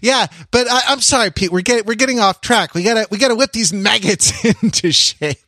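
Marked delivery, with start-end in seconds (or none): 2.8-5.4 lightly barked, put-on voice; a hint of a drill instructor; mock drill sergeant. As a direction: talk like a sergeant about recruits.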